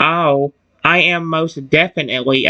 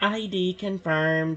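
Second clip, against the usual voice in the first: soft, quiet, attempted robot voice; 3 semitones higher, 12 dB quieter than usual. Speaker complains he can't mimic the voice, then tries the Paradise Protection Protocol robot voice. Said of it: "I cannot mimic that voice at all?".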